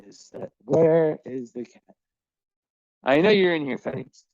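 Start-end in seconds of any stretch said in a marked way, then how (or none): 3.0-4.2 high, louder coaxing call; calling to hiding cat. Real, not acted. Owner searching her apartment for Felix, high loud call.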